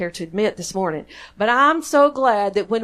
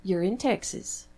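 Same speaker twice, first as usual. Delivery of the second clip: softer, gentle teacher voice; calm kindergarten teacher; 7 dB quieter than usual. Retold or imitated. Friend on the phone calming the lost preacher, soft and calm. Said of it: "in her very calm kindergarten teacher voice".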